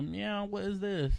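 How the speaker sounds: drawn-out meow, then a small puzzled question; meowing puzzled cat. Retold or imitated. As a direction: softly play the bewildered cat. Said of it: "and it was like".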